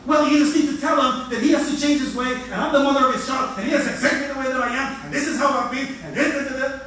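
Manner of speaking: imitating her attacking rant. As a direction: throw her words back at him. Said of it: "now she starts attacking me".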